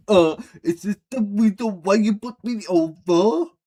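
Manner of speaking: a hammed-up posh repeat of the line; mocking posh English accent echoing the show. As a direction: parrot the character in a put-on posh English accent. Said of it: "Why you sound like a posher?".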